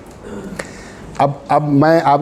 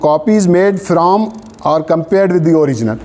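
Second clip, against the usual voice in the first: reads the law out word by word, very slow; measured legal dictation; slow dictation reading; 2 semitones higher, much slower than usual. Acted. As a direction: dictate so students can write it down. Dictating statute text to class.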